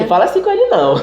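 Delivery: high-pitched imitated scolding; protective grandmother. Grandmother defending grandson from others' remarks, mock scolding.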